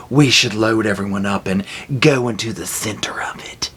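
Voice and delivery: dropped to a whisper; ominous whisper. Acted. Telling viewers the doomed plan, whispered. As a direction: whisper the bad idea darkly.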